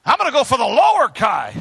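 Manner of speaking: high, loud mock truck voice; voicing the semi. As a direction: play the truck gleefully choosing its target. Semi voice continues.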